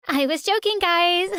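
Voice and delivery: high, laughing taunt; mocking laugh. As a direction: laugh it off at her sister's expense. Sister mocks her after fake note.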